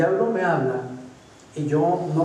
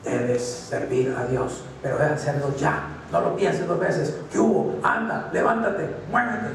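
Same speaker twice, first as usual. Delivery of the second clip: pushy little voice. Pretend. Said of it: "una vocecita que le dice".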